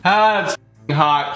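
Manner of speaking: slow, strained through burning mouth; gasping at pepper heat; mouth burning from spicy food. Real, not acted. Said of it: "it's f***ing hot".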